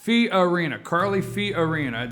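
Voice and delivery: "Fiorina" sounded out in full; enunciated name. Shown as a demonstration. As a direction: carefully enunciate "Fiorina" with the "Fi-o" clear. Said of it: "I gotta enunciate there".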